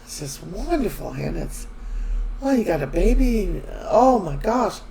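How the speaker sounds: mock delighted congratulations, lifting in pitch; imitated put-on wonder; pretending to believe. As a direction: gush gently as if you believe her. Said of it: "he's acting like he believes her".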